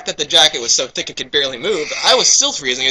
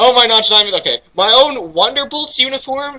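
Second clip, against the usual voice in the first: bursting with happiness; 7 semitones higher than usual. Acted. Reader voicing Rainbow Dash about to burst with joy. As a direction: hold back an explosion of joy. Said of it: "doing her best not to explode with happiness".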